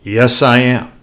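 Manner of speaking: mildly booming mock reply, firm and full. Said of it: "booming voice".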